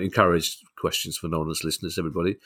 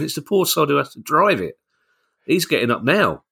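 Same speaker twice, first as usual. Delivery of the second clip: ticket tout; 6 semitones higher than usual. Retold or imitated. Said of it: "You made yourself sound like a tout then".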